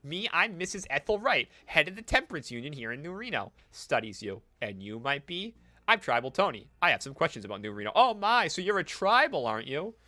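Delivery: lightly voiced startled matron; prim old lady. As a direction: temperance lady meeting a stranger, fussy. Voices Ethel Wright.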